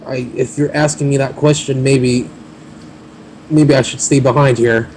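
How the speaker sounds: goblin voice. Acted. Goblin NPC keeps talking.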